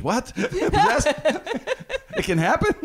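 high, startled disbelief; shocked kid. Retold or imitated. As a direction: squeak it out like a scared kid. Retelling his frightened kid self.

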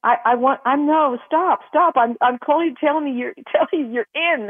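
half laughing as she blurts out the good news; excited good news. Retold or imitated.

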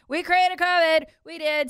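high, loud and slow mock shout; mock yelled confession. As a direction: bellow the confession as a parody. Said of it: "screaming and yelling that".

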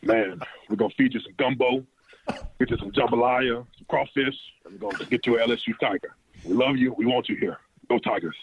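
a hint of a big Louisiana head coach recruiting a player; Coach O impression. LSU rookie imitating his old coach's recruiting pitch, lightly done. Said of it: "an impersonation in his former coach's direction".

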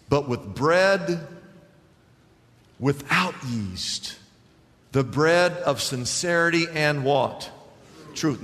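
slow reading. Real, not acted. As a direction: linger over each word. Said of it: "I'm gonna read it slow".

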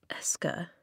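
soft, slow address; slow, deliberate. A narrator's reading. Flint gets Eska's attention as he realises something, speaking slowly. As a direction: say the name slowly and quietly. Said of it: "he said slowly".

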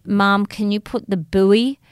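slowly imitated American child's accent. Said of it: "turned into an American accent".

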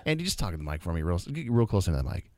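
low, softened mock-seductive voice; mock sexy. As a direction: drop it low and close to the mic, playfully sultry. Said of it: "Talk to me sexy".

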